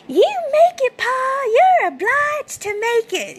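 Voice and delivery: high, slow Southern boy pleading with his pa, exaggerated; old school Southern accent. Southern boy urging his snake-bit pa to survive, high and slow. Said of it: "the way that they talk... old school Southern".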